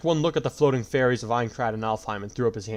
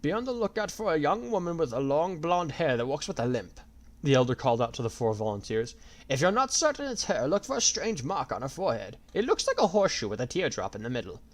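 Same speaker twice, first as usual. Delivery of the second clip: put-on old elder voice; 5 semitones higher than usual. A narrator's reading. Elder calls out description.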